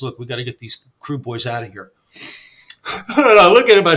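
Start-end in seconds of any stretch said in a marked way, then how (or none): 0.0-1.9 retold whisper. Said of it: "he whispers in my ear".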